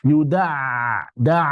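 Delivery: long open 'da' in Yuda, all through the mouth; oral ain, not nasal. Shown as a demonstration. Teacher shows students the ain, correct non-nasal sound. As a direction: say 'da' in Yuda without nose. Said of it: "jangan sampai mengalir melalui lubang hidung".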